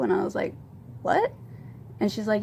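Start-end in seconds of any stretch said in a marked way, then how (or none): 1.0-1.3 high-pitched, taken-aback question; retold shock, voice jumping way up; stunned disbelief. Retells reaction to shocking question.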